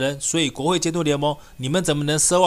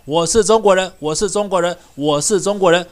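loud repeated chant, louder on each end; shouting a slogan; 2 semitones higher, 5 dB louder than usual. Real, not acted. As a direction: shout it out three times, defiant. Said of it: "所以呢，我就喊". (大声反复高喊)

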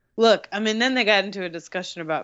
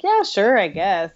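unsure agreement; 2 semitones higher, 5 dB louder than usual. Retold or imitated. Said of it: "we were all like".

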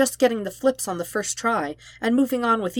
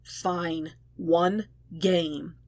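resigned sigh; 5 dB quieter, much slower than usual. Acted. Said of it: "Zuko sighed deeply".

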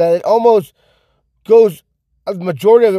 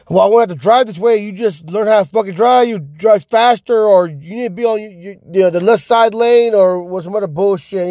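a raised, whiny voice mimicking a know-it-all driver; mocking quote; 4 semitones higher than usual. Mocking road-rage drivers who blame him, in a raised whiny voice. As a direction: sneer it back at them like a scold.

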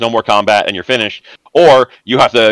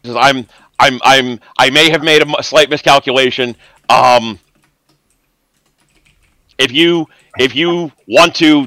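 a cornered rat boss stalling for his life; nervous cornered villain; 5 semitones higher than usual. Acted. GM voices cornered NPC Rourke.

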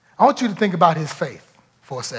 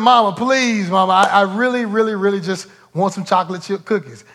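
put-on begging child; 2 semitones higher than usual. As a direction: plead like a kid desperate for a treat. Child begs third time.

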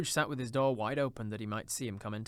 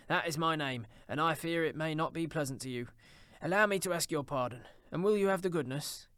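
slightly raised, eager contrition; higher, pleading politeness; earnest Scrooge, apologising; 5 semitones higher, 3 dB louder than usual. Acted. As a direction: ask pardon with earnest energy.

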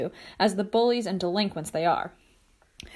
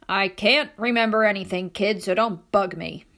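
put-on crabby old man voice. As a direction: bark it like a grumpy old man. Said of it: "he barks in his best crabby old man voice".

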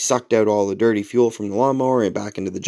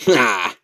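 short wordless "ah" in imitation; imitated dismissive noise. Old neighbor answering without understanding, imitated noise. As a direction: mimic a noncommittal noise. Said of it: "made a noise".

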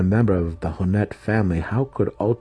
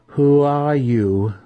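slow, high, louder question; insistent demand; 8 semitones higher, 6 dB louder, much slower than usual. A narrator's reading. Matron demanding the impostor's name with whip ready, insistent. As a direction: draw the question out, high and forceful.

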